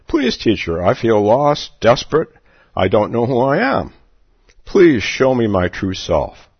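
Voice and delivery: a touch of desperate pleading; distraught plea. Acted. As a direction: beg the teacher for help. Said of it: "A distraught man approached the teacher".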